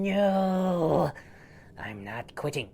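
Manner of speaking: high squeaky bug voice insisting; cling on and refuse, rising to a shout; tiny louse yelling he won't quit; stubborn little louse. Acted. Louse clinging as dog scratches.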